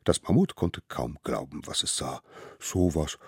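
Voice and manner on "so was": gush, drawing out and lifting the end. A narrator's reading. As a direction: swoon over an adorable gift. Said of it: "schwärmte es". (überschwänglich schwärmend)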